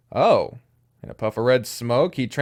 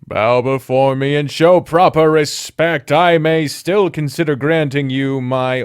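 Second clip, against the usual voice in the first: pompous little demon snake, loud; Malice, haughty demon; 6 dB louder than usual. Acted. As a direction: proclaim like a self-important tiny demon.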